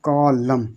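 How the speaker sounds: कॉलम in two beats, ending on M; silent N. Shown as a demonstration. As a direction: say "co-lam" for कॉलम. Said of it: "इसको सिर्फ यहाँ तक पढ़ते हैं".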